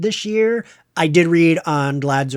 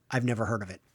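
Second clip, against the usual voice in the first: mock blank reply; 6 semitones lower, 11 dB quieter, much faster than usual. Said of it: "either they are like".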